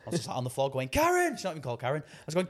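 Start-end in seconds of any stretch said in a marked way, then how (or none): 0.9-1.4 high soap-opera wail of a name; Coronation Street wail. Retold or imitated. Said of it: "like Coronation Street style".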